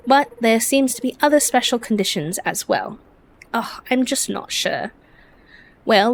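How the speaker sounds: earnest storybook friend, lightly acted; British-accented game character. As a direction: read it as an eager, bookish friend with a put-on English accent. Reads game character's dialogue.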